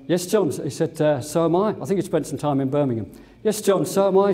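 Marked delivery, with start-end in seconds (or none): 0.1-0.5 a lightly voiced singer, a bit higher, no Liverpool accent; just a hint of the singer's voice without the accent; the singer, no accent. Pilot quotes a singer greeting him in the galley, lightly voiced. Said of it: "and I can't do his accent". 1.2-4.3 a lightly voiced singer, a bit higher, no Liverpool accent; just a hint of the singer's voice without the accent; the singer, no accent. Pilot quotes a singer greeting him in the galley, lightly voiced. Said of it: "and I can't do his accent".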